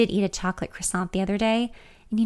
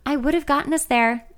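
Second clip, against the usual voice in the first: higher, defensive comeback; sparring; 6 semitones higher, 3 dB louder than usual. A narrator's reading. Driver defending her route to her friend, sparring. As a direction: spar back at her. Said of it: "I spar".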